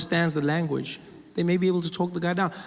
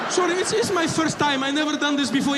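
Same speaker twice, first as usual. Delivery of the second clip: put-on high accented excuse; mock Arab man making excuses; sheepish attacker; 10 semitones higher, 3 dB louder than usual. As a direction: apologise in a pleading high voice.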